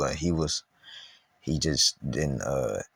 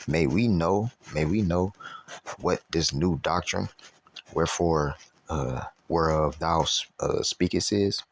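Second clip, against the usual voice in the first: slow, halting Bible reading; scripture reading. Acted. Preacher reading the Athenians' question to Paul, scripture reading. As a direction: read it deliberately with pauses between phrases.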